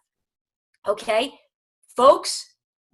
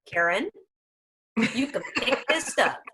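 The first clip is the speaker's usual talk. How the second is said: voicing the dog; 5 dB quieter than usual. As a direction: send the bowl back like a fussy diner. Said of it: "some dogs who in that first moment go".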